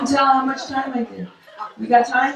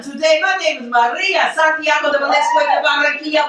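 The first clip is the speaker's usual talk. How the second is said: mock Puerto Rican persona; 5 semitones higher than usual. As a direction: ham up a proud Puerto Rican lady. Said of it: "I'm like".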